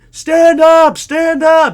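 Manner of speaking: high, very loud urgent yell; screaming. Retold or imitated. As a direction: scream at him like a cheer team. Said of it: "Everyone's screaming".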